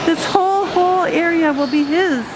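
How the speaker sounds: amazed. Real, not acted. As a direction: gasp at how beautiful the place is. Showing the aviary in awe.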